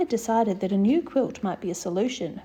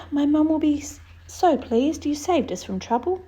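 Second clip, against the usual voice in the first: princess happy; 5 semitones higher, 3 dB louder than usual. Acted. Princess thanks Annabel.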